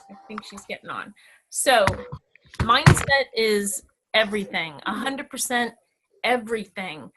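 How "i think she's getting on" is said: whispered aside; breathy whisper to herself. Real, not acted. Aside while waiting on Zoom.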